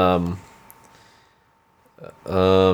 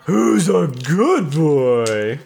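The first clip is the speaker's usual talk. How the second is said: more energy; 2 semitones higher, much slower than usual. Pretend. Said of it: "say it again, but with more energy".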